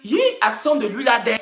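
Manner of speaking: demonstrating the home way of exclaiming, against Paris; home-style exclamation, not Paris. Shown as a demonstration. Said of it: "nous, on dit que".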